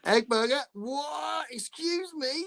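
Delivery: high incredulous squeak; can't believe what she's reading; outraged surprise. Real, not acted. Host reacting to a listener's egg burger, shocked.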